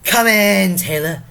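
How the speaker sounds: loud, high theatrical welcome, drawn out at the end; calling out. Acted. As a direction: holler the guest inside. Porter calls in imagined arrival.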